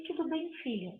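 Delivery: very soft, gentle reassurance; calm a child quietly; mother softly reassuring her daughter. Retold or imitated.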